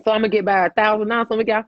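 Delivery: loud joking hype; big fake promo boom; mock announcement. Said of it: "No, I'm just playing".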